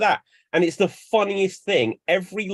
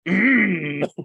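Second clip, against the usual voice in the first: drawn-out wordless noise; imitated dying-scene noise; 2 semitones higher, 4 dB louder than usual. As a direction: let out an odd mock noise. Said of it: "lets out this noise".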